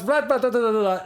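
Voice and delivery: put-on Russian accent. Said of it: "like, in the accent".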